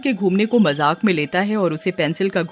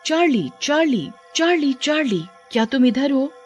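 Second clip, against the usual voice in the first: high-pitched calling to a spirit; séance-style questioning call; summoning call; 5 semitones higher than usual. Acted. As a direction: call the name in evenly repeated high pairs.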